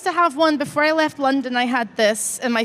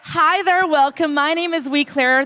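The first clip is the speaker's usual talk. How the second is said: Scottish accent; 3 semitones higher than usual. Shown as a demonstration. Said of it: "And shall I do the panel like this?".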